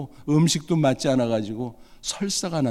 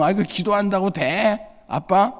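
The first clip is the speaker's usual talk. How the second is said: scoffing son; 6 semitones higher than usual. Retold or imitated.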